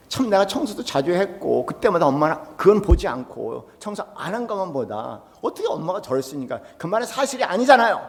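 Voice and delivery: high-pitched aggrieved complaint; acted-out objection, pitch climbing at the end; protesting son. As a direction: argue back as a wronged son. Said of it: "항변을 하게 되는 거예요".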